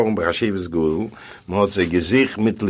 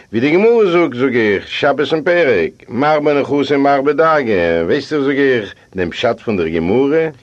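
higher, louder quoting of scripture; emphatic interjection; 5 semitones higher, 5 dB louder than usual. Acted. Narrator interrupts host with Talmud saying, raised, emphatic voice. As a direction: cut in loudly with a learned quotation.

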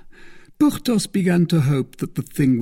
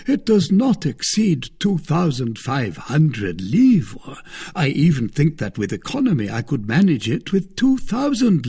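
a higher, louder voice for the smug musketeer; Porthos, self-satisfied; 6 semitones higher, 5 dB louder than usual. Acted. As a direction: play Porthos, pleased with his own scheme. Porthos quoted in the story.

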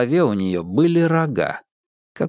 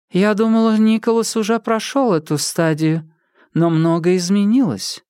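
woman character voice; 6 semitones higher than usual. Acted. Woman scientist speaks.

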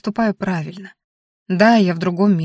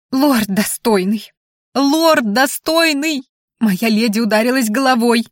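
slow drawn-out calling, rising higher; wailing; 4 semitones higher, slower than usual. A narrator's reading. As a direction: call out for help, climbing into a high wail. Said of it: "гласила зверушка".

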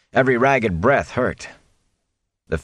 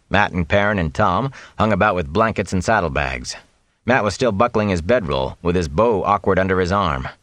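ordinary delivery, nothing marked

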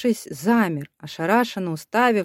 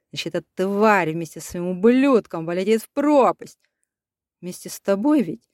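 usual speaking voice

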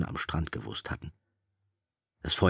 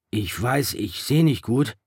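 Piggy's voice; 7 semitones higher, 5 dB louder than usual. A narrator's reading.

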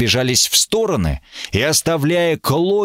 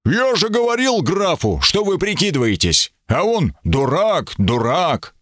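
higher, gleeful voice; delighted exclamation; 6 semitones higher than usual. A narrator's reading. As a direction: crow it out with glee. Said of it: "воскликнул восторженно".

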